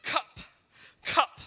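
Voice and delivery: dad imitating his son at the fridge; toddler demand. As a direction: whine like a toddler wanting milk. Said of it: "but he goes".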